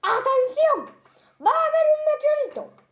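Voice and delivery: high, loud urgent announcer call; news alert. Retold or imitated. Monster mimics the news warning him, high and loud. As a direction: cry the alarm like a news flash. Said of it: "decía en la noticia".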